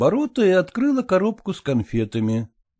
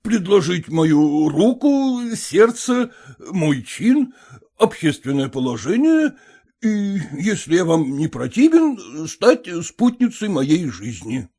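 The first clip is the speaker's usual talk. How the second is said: put-on stiff elderly suitor; 4 semitones higher, slower than usual. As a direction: recite the proposal like a form. Erekhonsky voiced low.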